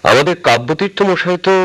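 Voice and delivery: high, startled objection; surprised protest. Acted. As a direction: object in disbelief. Servant protests the priest's removal.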